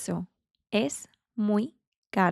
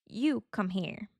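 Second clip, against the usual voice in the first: whisper; 5 dB quieter than usual. Shown as a demonstration. Teacher whispers a sample phrase.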